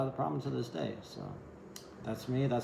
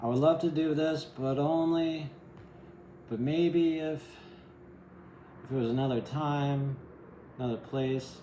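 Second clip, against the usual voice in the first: hesitant excuse voice; 4 semitones higher than usual. Retold or imitated.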